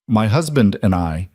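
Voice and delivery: "husband" given clear, pointed weight; stress on husband. A narrator's reading. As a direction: lean deliberately on "husband". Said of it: "emphasizing the word deliberately".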